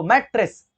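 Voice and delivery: मैट्रेस split in two, मैट, then रेस; broken into syllables. Shown as a demonstration. Teacher showing students where the word breaks, मैट्रेस said syllable by syllable. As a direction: say मैट्रेस as two separate beats. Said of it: "अभी break हो रहा है ना".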